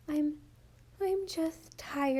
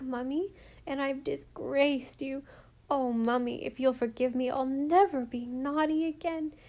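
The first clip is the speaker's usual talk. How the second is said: put-on a small girl pleading, higher, half sobbing; tearful little girl; 4 semitones higher than usual. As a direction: beg Mummy's forgiveness through tears. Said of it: "Rilla sobbed out the whole story".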